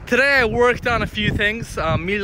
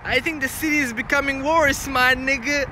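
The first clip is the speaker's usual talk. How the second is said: higher-pitched mock street-guy voice; joking tough-guy character; 6 semitones higher than usual. Joker bragging about walking around Scarborough, mock tough-guy voice. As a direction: play a comic tough guy, tagging man on.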